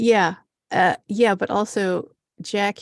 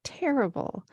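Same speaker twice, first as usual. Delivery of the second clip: whispered word; 5 semitones higher, 5 dB quieter than usual. Real, not acted. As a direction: breathe it out without voice.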